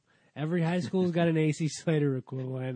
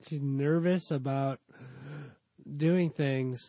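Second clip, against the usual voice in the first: mock gasps breaking the line; weird mid-line breaths. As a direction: imitate a bad actress gulping air mid-sentence. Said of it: "takes weird breaths in the middle".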